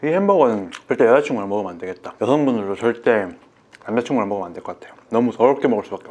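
chewing while talking; talking between big bites; mouth full. Real, not acted. Seen 1: bites burger at 1.6-3.6, then talks with cheeks full.

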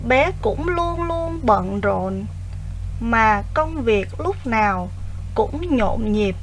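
put-on slow, clear dictation to children; dictating. Shown as a demonstration. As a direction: read each phrase slowly for pupils to write. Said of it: "nghe cô đọc đoạn chính tả nhé".

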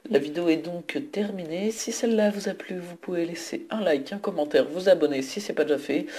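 lightly put-on flight attendant announcement; sing-song cabin announcement, gently done. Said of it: "J'arrête de faire la voix d'hôtesse de l'air".

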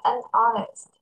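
"unhonest" as "an honest", no H sound; silent H. Shown as a demonstration. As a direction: run "an" straight into the vowel of "honest" in "unhonest". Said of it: "Âm H này là âm câm".

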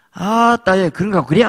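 high, loud indignant dialect retort; husband's retort. Acted. Husband snapping back at his wife, high and loud. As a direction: snap back like a riled husband.

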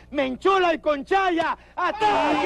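drawn-out rallying cry; slow, stretched-out attack order; battle call. Acted. Leader sending his fighters into battle, drawn-out call.

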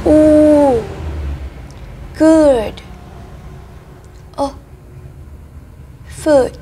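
each English sound then its word, held apart and clear; slow model pronunciation. Shown as a demonstration. Teacher to children drilling IPA, slow clear model pronunciation. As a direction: say "U" then "good", pausing after each like a drill. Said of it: "lắng nghe và sau đó luyện tập cùng cô".

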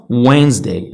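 وينزداي in two beats, "wenz-day"; silent D. Shown as a demonstration. Teacher repeating the example for learners, silent D. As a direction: skip the first D in وينزداي. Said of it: "ما درتش الدي بالأحمر".

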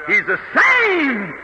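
revival preacher in full flow; fervent preaching. Real, not acted. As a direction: drive each phrase home with punched key words.

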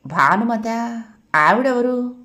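baffled questions, lifting in pitch; puzzled. A narrator's reading. Husband asked about a strange woman's name, puzzled. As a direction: query it as if clueless. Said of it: "అని బుర్ర గోక్కుని".

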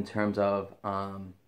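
talking around pipe stem; clenched pipe speech; pipe in mouth. Real, not acted. Seen 1: Pipe stem held in mouth corner mid-label; hand-held before and after.

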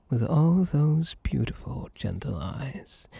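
hushed admiring whisper. Acted. Complimenting listener.

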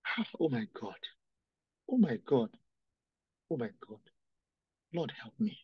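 soft tearful moaning; quiet weeping. Real, not acted. Preacher weeping before the church, moans oh my God. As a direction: grief sinking down to a low moan. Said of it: "The reason why I'm crying".

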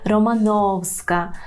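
"Романовська" slow, stress on НОВ; stress on next-to-last syllable. Shown as a demonstration. Teacher showing Polish surname stress, "Романовська" stressed on НОВ. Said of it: "наголосом на передостанній склад".

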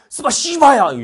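high, loud burst of fake Russian; mock Russian outburst. Russia telling Japan off, mock angry shout. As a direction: explode like a comic Russian curse. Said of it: "러시아가 얘기하죠".

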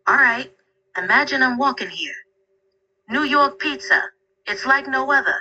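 corny New York accent; thick New York accent. Shown as a demonstration. Assistant talking up New York pizza in a thick New York accent. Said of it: "do a really thick New York accent".

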